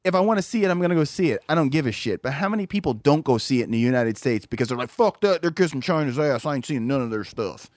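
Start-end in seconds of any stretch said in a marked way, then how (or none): 4.9-7.7 lightly voiced grumbling boycotter; mocking objectors' voice. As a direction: imitate a dismissive complainer, dropping away at the end. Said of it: "That's how they talk when they say it".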